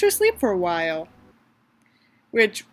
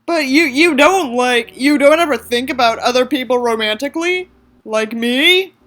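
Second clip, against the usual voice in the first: a hint of a nervous teen boy, slightly louder; Davis voice; 4 dB louder than usual. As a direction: lightly voice Davis asking shyly. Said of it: "this is my Davis voice".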